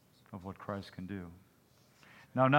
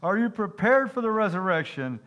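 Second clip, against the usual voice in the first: frustrated preacher; 8 semitones higher, 4 dB louder than usual. Acted. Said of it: "the frustrated preacher said".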